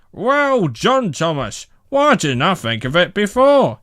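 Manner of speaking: loud, high delighted praise. A narrator's reading. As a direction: burst out pleased with a new idea. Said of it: "and then he laughed".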